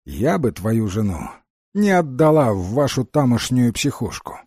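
слегка озвученная Фея. Acted. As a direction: press the point as the Fairy, lightly acted. (Фея слегка нажимает, голос к концу выше)

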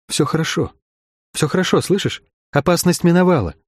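put-on gently reassure, as if to a frightened child; soothing. A narrator's reading. Sharon comforting the weeping keeper's wife, soothing. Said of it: "говорила с ней так же, как с Найли, чтобы хоть как-то успокоить".

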